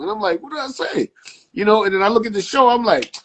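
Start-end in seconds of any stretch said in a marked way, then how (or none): 0.4-1.1 high-pitched, soft, confused question; baffled. Retold or imitated. Barber retelling his confused answer to fans, high and soft. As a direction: ask it like you truly have no idea.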